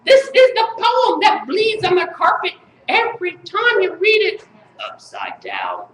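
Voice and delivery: emphatic, chanted spoken-word delivery; incantatory slam-poem reading; poetry recital. Acted. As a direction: declaim each line as a mock-serious poet.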